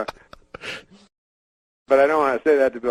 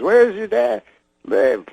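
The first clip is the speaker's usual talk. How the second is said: 1 Cosby impression; 9 semitones higher, 4 dB louder, slower than usual. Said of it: "He goes".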